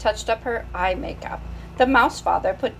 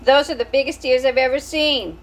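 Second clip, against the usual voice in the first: put-on higher and louder child voice; little sister; 5 semitones higher, 4 dB louder than usual. Sister Malot staring at the new baby. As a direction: complain like a small child. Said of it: "said his sister Malot".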